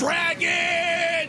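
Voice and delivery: high shrieking dragon cry; dragon impression. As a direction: screech like a dragon. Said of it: "You wanna hear my dragon impression?".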